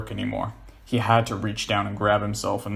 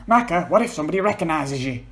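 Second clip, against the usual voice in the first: worried; 7 semitones higher, 4 dB louder than usual. Acted. John pleading.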